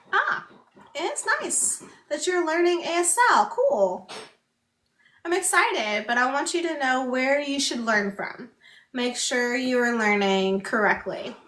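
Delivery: upbeat friendly advice; cheerful, kind nudge to learn right; friendly encouraging. Pretend. Acted friendly advice quote.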